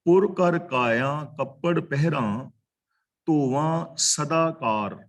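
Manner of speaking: slow, measured verse reading; drawn-out sacred verse; scripture recitation. Real, not acted. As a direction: recite the line slowly, word by word.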